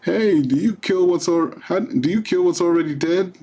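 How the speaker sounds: quoting a card. Acted. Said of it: "That's funny".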